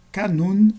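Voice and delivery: "Kanun" stressed on the last syllable, NUN; final-syllable stress. Shown as a demonstration. Teacher showing circumflex examples, "Kanun" stressed on NUN. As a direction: put the weight on NUN in "Kanun". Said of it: "Na última sílaba".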